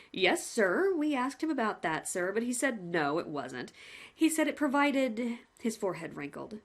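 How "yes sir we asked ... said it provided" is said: lightly voiced cheerful jailer; a hint of a chummy warden; a plain-spoken warder reporting to the condemned man, lightly voiced; polite prison warden. Warden Wilkinson speaks.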